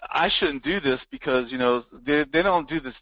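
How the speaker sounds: a catch of crying in the voice; choked-up self-doubt. Retold or imitated. Coach voicing his old doubts, near tears. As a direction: say it as if tears are close.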